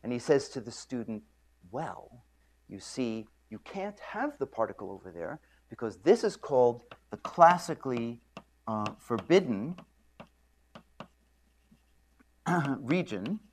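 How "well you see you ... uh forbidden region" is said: condescending professor. Retold or imitated. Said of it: "smiles in a very condescending fashion".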